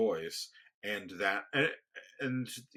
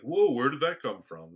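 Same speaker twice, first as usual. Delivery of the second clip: imitated startled reaction, higher and louder; taken aback; 4 semitones higher, 7 dB louder than usual. Others reacting to his sudden outburst, taken aback. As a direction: act out someone caught off guard.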